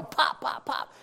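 soft, high popping noises; imitated gunshots. Man retelling shots fired at the lion, imitated gunfire. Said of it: "And I hear pop".

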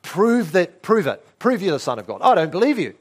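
acted disbelieving challenge; challenging doubt. Preacher voicing the devil's doubt to Jesus, challenging. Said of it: "What's that saying?".

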